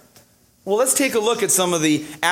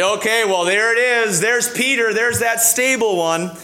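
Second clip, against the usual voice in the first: higher-pitched, mildly excited discovery; pleased recognition; 5 semitones higher than usual. Acted. Preacher voices listeners spotting the stable Peter, mildly excited. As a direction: say it as if finally spotting him, pitched up.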